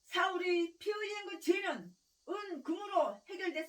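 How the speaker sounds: slow preaching shout. Acted. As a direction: thunder the verse out at the congregation. Preacher repeats verse, shouting.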